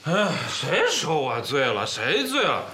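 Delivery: slurred speech. Acted. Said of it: "舌头都大了".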